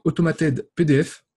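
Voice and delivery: English words with a French accent; shaky English accent. Real, not acted. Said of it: "désolé pour l'accent anglais un peu foireux".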